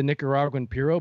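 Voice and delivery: puro said as pyuro, anglicized; Spanish word with a gringo accent; American accent Spanish. Real, not acted. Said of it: "I said puro like a white dude".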